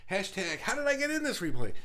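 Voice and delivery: mock confused viewer. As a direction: act baffled at being here.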